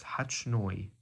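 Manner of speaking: "Hachnoi" pronounced deliberately with a ch sound in the middle; corrected pronunciation. Shown as a demonstration. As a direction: say "Hachnoi" carefully, as a corrected model. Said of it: "I said it wrong the first time".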